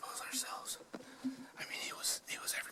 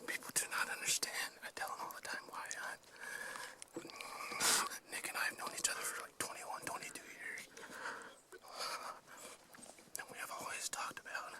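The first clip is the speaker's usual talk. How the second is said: whispering. Real, not acted. Whispering on a hunt.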